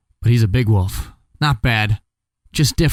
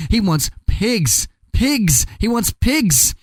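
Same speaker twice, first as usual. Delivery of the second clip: insistent pig; 8 semitones higher, much slower than usual. Acted. Pig insists wolf wants pigs.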